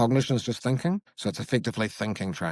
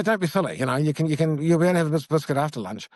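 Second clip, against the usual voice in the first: dismissive parent; 5 semitones higher than usual. Shown as a demonstration. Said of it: "if I say".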